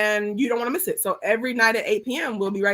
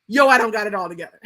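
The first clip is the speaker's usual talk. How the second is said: quick casual quote; 4 dB louder, faster than usual. Retold or imitated. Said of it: "emotionally mature enough to be like".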